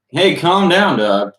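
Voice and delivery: high sharp call of Hey, then dropping back; scolding shout. Acted. Michelangelo scolding the dazed dog, high and loud. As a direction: snap at the dog to settle it.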